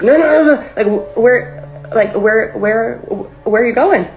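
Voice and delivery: high, loud frantic no's; stammer, desperate to stop her leaving; panicked pleading. Retold or imitated. Begging her manager not to leave, high and panicky. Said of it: "And I'm like".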